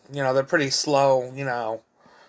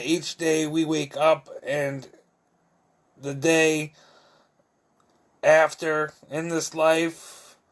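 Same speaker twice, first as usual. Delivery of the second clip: steady, chant-like list poem recital; poetry reading; 3 semitones higher than usual. Acted. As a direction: recite it rhythmically, leaning on each repeated "Hey". Reads own poem aloud.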